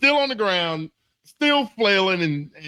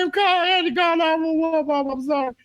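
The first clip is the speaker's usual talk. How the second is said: high, rushed mock-panicked whine; retold panicked confession; 10 semitones higher, faster than usual. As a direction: blurt a frantic apology to mom, hammed up. Retelling his panicked confession to mom.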